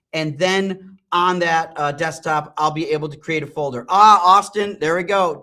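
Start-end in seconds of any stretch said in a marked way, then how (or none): 3.9-4.8 loud call across the room; sudden loud shout for a coworker. Real, not acted. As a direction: call his name out to get his attention. Calls out to a coworker.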